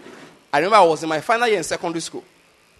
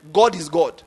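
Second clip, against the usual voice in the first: "God is God" with a hard falling stress on "God"; emphatic God is God; 3 semitones lower than usual. Real, not acted. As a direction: press down on "God" each time. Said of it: "I emphasize that God is God".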